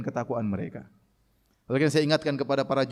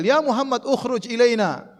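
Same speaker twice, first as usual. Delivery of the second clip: mock rude summons; calling out rudely; 6 semitones higher, slower than usual. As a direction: yell for him to come out. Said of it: "Mereka teriak".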